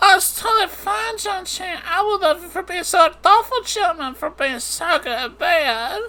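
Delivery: very high-pitched ventriloquist dummy voice. A man voices the lady's reply himself, as if a ventriloquist, in a high-pitched ventriloquist voice. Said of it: "he said with a high-pitched voice".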